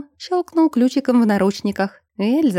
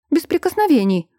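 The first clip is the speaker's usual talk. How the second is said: sharp exclamation, higher pitched; no touching, pitched up and emphatic; exclaiming; 6 semitones higher than usual. A narrator's reading. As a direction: cry it out as a firm warning. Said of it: "воскликнула Эльза".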